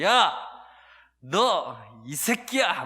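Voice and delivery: sudden loud yell, then drawn out slowly; retold yelling at child. Father yelling at his child in the hallway, loud and drawn out. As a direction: reenact the father losing his temper. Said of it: "막 하면서".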